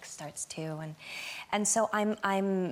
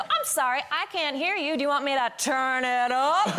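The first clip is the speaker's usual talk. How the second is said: higher, mock-apologetic taunt; playfully cheeky, pitched up; sarcastic comeback; 3 semitones higher than usual. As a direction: pretend not to hear, then taunt. Acted sarcastic comeback in the exchange.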